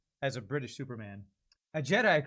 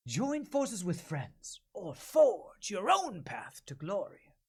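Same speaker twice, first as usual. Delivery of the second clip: breathless; 6 semitones higher, much slower than usual. Acted. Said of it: "the breathlessness of that one".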